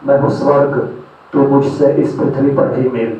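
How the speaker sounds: measured, declaimed verse with deliberate phrase breaks; poetry recitation. Acted. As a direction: recite it as a poem to an audience. Recites own poem.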